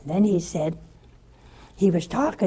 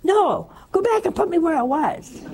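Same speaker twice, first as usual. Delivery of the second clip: laughing plea; 9 semitones higher than usual. Retold or imitated. Pleading to return, laughing.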